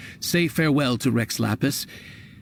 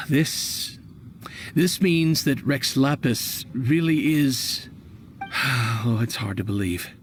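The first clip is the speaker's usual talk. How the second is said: saddened disbelief; slower than usual. Acted. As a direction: let the news sink in and sag. Shopkeeper hears the god died.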